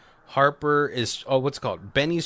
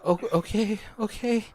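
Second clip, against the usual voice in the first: high-pitched, wary mock compliance; nervous agreement; 10 semitones higher than usual. Cornered woman humoring Benny, mock nervous. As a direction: back off in a high little voice.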